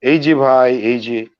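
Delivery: high, loud hail to a passer-by; calling out. Shown as a demonstration. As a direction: call someone over in Bangla. Demonstrates calling someone in Bangla.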